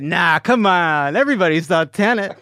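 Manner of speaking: mock-confident brush-off; breezily dismissive. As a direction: wave the doubts away, loudly. Quotes own overconfident dismissal of doubters.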